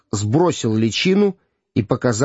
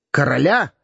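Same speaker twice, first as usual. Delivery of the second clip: startled exclamation; 2 semitones higher than usual. Acted. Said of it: "воскликнул он".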